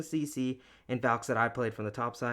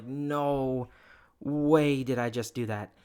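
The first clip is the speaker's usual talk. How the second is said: stunned disbelief; 3 dB louder, much slower than usual. Retold or imitated. Retold disbelief at mistake.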